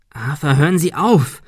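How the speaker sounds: pleading. Acted. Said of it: "beschwor ihn Ben".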